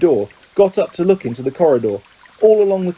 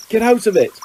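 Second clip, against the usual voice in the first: higher, sharp "get out of it" at the cat; Ron angry shout; 8 semitones higher, 3 dB louder than usual. Acted. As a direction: shove the cat off with a raised voice. Ron shoves cat angrily.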